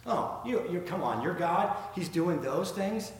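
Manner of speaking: lightly imitated scoffer; incredulous mock question, slowing at the end; making fun. Onlookers making fun of believers, lightly mocking. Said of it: "just making fun of them".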